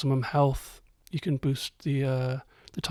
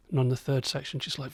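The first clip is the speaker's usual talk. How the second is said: plain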